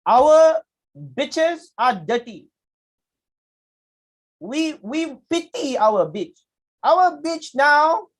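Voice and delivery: high, loud, drawn-out speechifying; mock speech delivery. Retelling a botched speech to the class, mock-earnest and high. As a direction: imitate an earnest speaker, high and slow.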